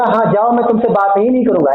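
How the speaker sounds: quick, sharp telling-off; a teacher's mock anger, quick and sharp; mock angry. Shown as a demonstration. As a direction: act truly fed up and send them off. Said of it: "it means मैं सच में गुस्सा हूँ".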